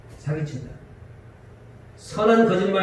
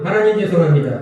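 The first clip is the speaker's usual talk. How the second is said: 하나님 죄송합니다 spoken louder and firm; louder call to repeat; 5 dB louder than usual. Shown as a demonstration. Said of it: "크게 하라는".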